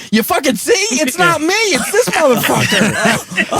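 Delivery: high, heated retelling of an argument. Retold or imitated. Retold heated argument at counter.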